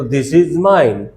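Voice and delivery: very slow, every word laid out for the class; slow model sentence. Shown as a demonstration. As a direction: say it slowly like a teacher modelling English. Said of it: "આ મારું છે તો".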